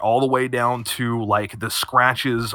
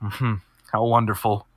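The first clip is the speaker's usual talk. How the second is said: quiet nasal voice. Acted. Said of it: "this quiet, kinda nasally voice goes".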